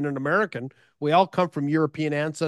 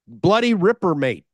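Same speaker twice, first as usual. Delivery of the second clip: a mock Australian "bloody ripper, mate", a little louder; Australian slang; 4 dB louder than usual. Showing off the Australian lingo he studied, in a mock accent. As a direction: toss off the lingo like a local bloke. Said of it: "studied up on Australian lingo".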